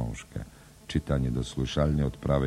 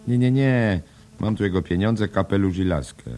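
much higher, louder hearty cabman; Kelleher voice; 7 semitones higher, 7 dB louder than usual. Acted. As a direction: protest it loudly, jolly and pushy. Kelleher voiced in read drama. (głośny, wysoki głos Kellehera)

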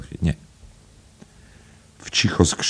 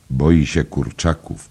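teasing. Acted. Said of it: "powiedział przekomarzająco".

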